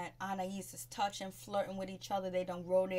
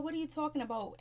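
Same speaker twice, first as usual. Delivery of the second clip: higher, baffled mock question; mock disbelief; 7 semitones higher, faster than usual. Imitating Ashley confronting her sister, baffled. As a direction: play her stunned and confused.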